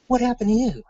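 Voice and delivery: high-pitched, baffled question; retold disbelief at an injured soldier; incredulous demand. Sergeant questions limping soldiers, retold.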